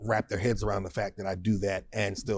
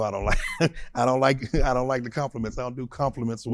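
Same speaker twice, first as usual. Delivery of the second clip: bashful chuckle through the words; laughing modestly; 3 semitones higher, faster than usual. Real, not acted. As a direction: modest protest broken by chuckles.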